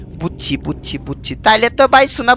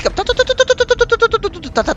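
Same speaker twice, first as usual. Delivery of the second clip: high calling; 13 semitones higher, 3 dB quieter, slower than usual. Acted. Baby monster gone, calling it.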